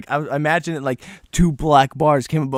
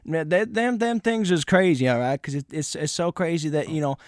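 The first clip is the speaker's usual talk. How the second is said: rambling strange guy; 3 semitones higher than usual. Retold or imitated. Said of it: "that's how he talked".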